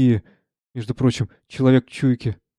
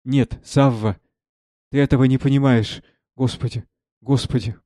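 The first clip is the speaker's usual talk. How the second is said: tearful. Acted. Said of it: "плача".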